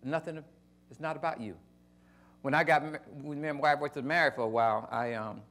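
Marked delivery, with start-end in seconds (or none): 0.0-1.6 quiet voice of God. Retold or imitated. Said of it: "And God says".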